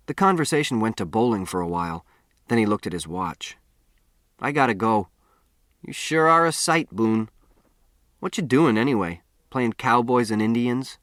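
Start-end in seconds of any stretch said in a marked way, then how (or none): 4.4-11.0 lightly voiced cocky kid poking fun; teasing town boy. Town boy mocking the stranger's getup as he leaves, lightly teasing. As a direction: rib him like a smug classmate.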